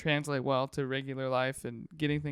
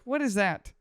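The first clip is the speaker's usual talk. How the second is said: higher-pitched baffled question; retold disbelief, pitched up; incredulous teacher; 6 semitones higher than usual. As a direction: imitate a teacher demanding an explanation. Teacher's startled question acted out.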